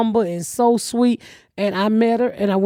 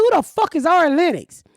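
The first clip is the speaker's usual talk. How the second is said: incredulous; 9 semitones higher than usual. Retold or imitated. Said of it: "I said".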